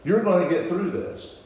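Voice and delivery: lightly imitating a calm, soothing stranger. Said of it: "looked at me with this soothing voice".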